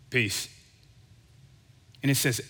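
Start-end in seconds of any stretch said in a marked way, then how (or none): 0.1-0.5 chill. Retold or imitated. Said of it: "how chill he was".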